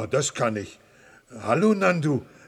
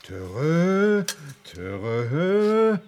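elephant talk; 4 semitones higher, 4 dB louder than usual. Acted. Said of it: "Komm, Nandu".

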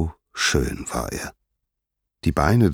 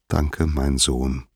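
tender, unhurried thanks; touched; 3 semitones lower, slower than usual. Acted. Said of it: "sagte Hera gerührt".

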